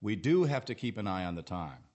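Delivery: firm model sentence leaning on "do"; emphasis on DO. Shown as a demonstration. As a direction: DO stressed, then falling away to "time". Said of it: "Notice the emphasis on the word "do".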